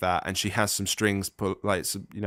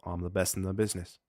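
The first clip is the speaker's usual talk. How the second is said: put-on Australian accent. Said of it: "you were indulging your Australian accent there".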